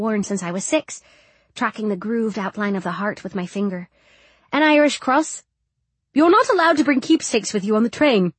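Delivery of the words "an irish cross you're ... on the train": stern, disapproving; stern matron. A narrator's reading. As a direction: forbid it like a strict matron. Matron scolding.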